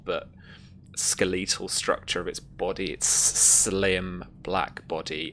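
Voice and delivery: slow, deliberate creature description; measured scene-setting with lingering pauses; game master narration. Acted. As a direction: unveil the monster slowly, piece by piece.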